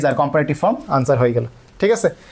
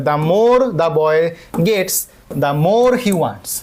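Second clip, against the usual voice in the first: slow reading; much slower than usual. Shown as a demonstration. Teacher reads answer slowly.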